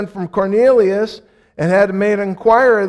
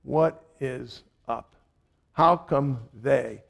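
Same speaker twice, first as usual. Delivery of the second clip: puzzled aside; 5 semitones lower, 10 dB quieter than usual. Retold or imitated. The Jew watching Gentiles saved, soft puzzled murmur. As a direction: mutter it, baffled and suspicious. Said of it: "The Jew looks at it and goes".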